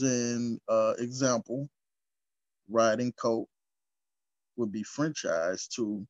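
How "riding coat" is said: normal talking voice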